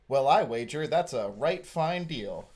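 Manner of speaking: slow mock-American accent, British cadence; British actor playing an American; American with British rhythms. Mocking British TV actors, slow American accent with British rhythms. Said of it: "do the American accent, but they keep all the British rhythms".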